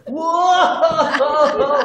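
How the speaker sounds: loud, high belly-laugh burst; booming mock ho-ho laughter; hearty Santa laugh. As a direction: imitate a boss's big gut laugh. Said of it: "Like a Santa Claus".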